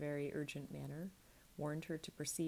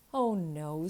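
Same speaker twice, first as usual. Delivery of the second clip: eager burst, much louder; 11 dB louder than usual. A narrator's reading. Nell eagerly telling Mrs Quilp, an eager loud burst. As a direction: blurt it out eagerly. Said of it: "said the child eagerly".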